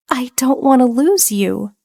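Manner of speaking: put-on tearful girl. A narrator's reading. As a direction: beg him not to leave, near tears. Evelyn crying, voiced high.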